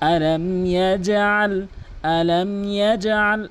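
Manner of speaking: slow, melodic tajweed recitation; Quran recitation. Acted. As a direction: chant it slowly, holding the long vowels. (সুরেলা ধীর কোরআন তিলাওয়াত)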